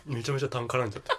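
talking through phlegm, laughing; throat still clogged with phlegm. Real, not acted.

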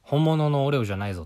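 speaking up to make the point; emphatic declaration. Real, not acted. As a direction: proclaim it loudly to everyone. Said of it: "声を大にして言いたい".

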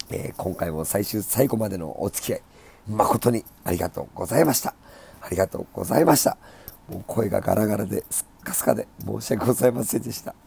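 raspy, worn-out voice; hoarse and thin from overuse. Real, not acted.

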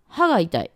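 「歯」 kept short before 「が」; short vowel. Shown as a demonstration. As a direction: say 「歯」 without stretching it. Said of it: "伸ばしてませんよね". (「歯」を伸ばさずに「が」へ)

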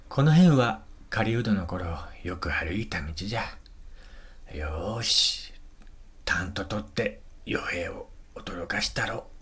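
put-on old hunter chuckling under his breath; hushed old man, pleased with himself. Gisuke mutters to himself. (独り言の老人の声)

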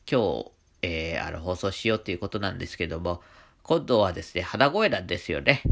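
allergy-blocked nose; nasal voice. Real, not acted. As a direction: speak through a stuffy nose.

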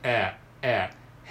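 "えー" as a vowel between a and e; ae vowel demo. Shown as a demonstration. Teacher showing the in-between ae vowel, held "えー". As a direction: shape the mouth for e and say a: "えー". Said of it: "絵の形であを言うみたいな".

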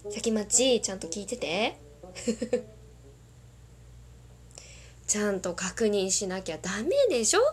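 a cute scolding voice for Sakimachi. Acted. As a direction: coo it like a cute anime girl. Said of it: "可愛い声でもこのセリフ言ってほしい".

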